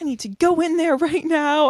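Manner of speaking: loud, urgent screaming. Recounting a man who banged on their window, imitating him screaming. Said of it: "he's like screaming at me".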